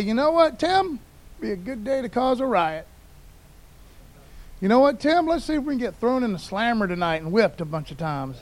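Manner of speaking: lightly acted, jokey eagerness; mock casual proposal. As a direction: pitch it up as a mock chirpy suggestion. Preacher imagines Paul casually proposing trouble.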